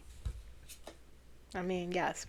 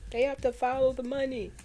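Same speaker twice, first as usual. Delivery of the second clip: higher, emphatic mock quote leaning on to; imitating John Lewis; 5 semitones higher than usual. Imitating an upset politician again, higher and emphatic. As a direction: repeat the line as if upset, pressing the word to. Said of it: "He was so upset".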